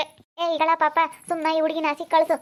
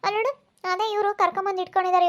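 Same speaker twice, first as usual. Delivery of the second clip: shrill complaint; 4 semitones higher than usual. Acted. Sister-in-law complains in quarrel.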